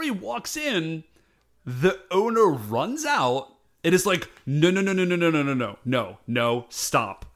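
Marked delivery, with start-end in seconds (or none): 4.5-7.3 imitating a rapid-fire string of no's; urgent refusal. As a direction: rattle off the no's to halt someone, mock-urgent. Owner runs out to stop customer.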